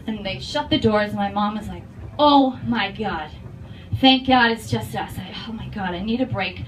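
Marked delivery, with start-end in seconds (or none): 2.2-6.6 stressed Boston mom. Retold or imitated. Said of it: "I'm wicked stressed".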